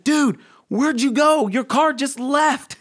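high, loud, drawn-out astonishment; imitating a baffled friend, high and stretched; bewildered friend. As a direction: call it out slowly in stunned disbelief. Acts out bewildered friend calling.

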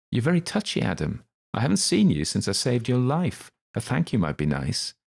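high, loud mock-hurt teasing; Le Cause teasing. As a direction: needle him about gratitude.

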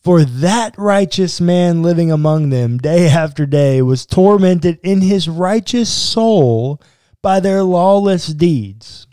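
deliberate, emphatic read-aloud; scripture reading. A narrator's reading. Podcast host reading verses about Lot, emphatic reading. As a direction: read the verse out, stressing key words.

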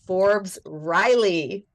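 slow, drawn-out announcer call of the name; stretched game-show introduction; announcer build. Acted. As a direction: announce her like a star. Announcing the guest.

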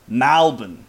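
Malbon with an open "Mal", "Mal-bn"; hipster Malbon. Shown as a demonstration. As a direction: open the first vowel of Malbon like "pal". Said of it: "M A L as opposed to the M E L".

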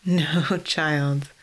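amused chuckle through the words; chuckling. Acted. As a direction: laugh it off gently. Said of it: "Ophelia chuckled".

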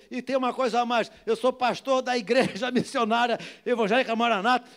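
high, loud, impassioned testimony; full-force preaching. Real, not acted. Pastor telling congregation how the man began crying, fervent preaching.

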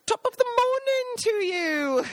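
husband greeting hunters in the woods, a slow, high, mock-cheery hello. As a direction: play the overly chipper stranger. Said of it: "And Jason would be like".

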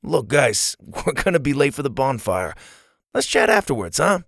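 mildly uneasy, with a small laugh; a touch of nervous evasion. Acted. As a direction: try to slip away with awkward friendliness. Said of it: "glanced around nervously".

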